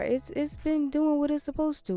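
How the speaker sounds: playful mock five-star rave; mock reviewer gush.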